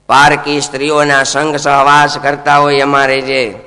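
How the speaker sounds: a hint of a stern king; king's decree. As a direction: pronounce the sentence like a ruler. King assigns Kali his places.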